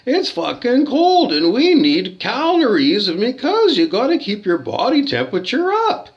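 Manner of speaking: loud, fed-up complaint; angry rant. Real, not acted. Guest complaining about the cold, loud and angry. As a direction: vent it loudly at the hotel.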